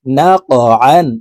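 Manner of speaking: আন begun with আইন pressed from the mid throat; throaty pressed আইন in আন; ain from the throat. Shown as a demonstration. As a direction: squeeze the আইন of আন from the middle of the throat. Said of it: "আইন হরফকে হলকের মধ্যখান থেকে চাপ দিয়ে".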